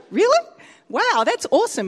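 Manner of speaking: high, loud mock astonishment; acted amazement. Preacher reacts to tooth-healing testimony, acted amazement. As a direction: burst out impressed, hammed up.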